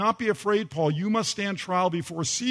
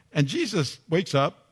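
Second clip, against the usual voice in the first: ordinary talk, nothing marked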